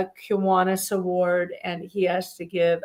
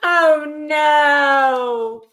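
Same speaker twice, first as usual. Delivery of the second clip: higher, slow, hammed-up dismay; mock disappointment; 7 semitones higher, 4 dB louder, much slower than usual. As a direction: play up the letdown. Mock disappointment at empty slot.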